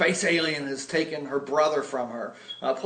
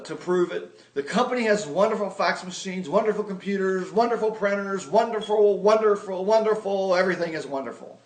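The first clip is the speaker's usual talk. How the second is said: gushing pitch; 3 semitones higher than usual. Retold or imitated. Pitching his sister with mock gushing enthusiasm. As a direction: gush about the company like a true believer. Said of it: "So I say".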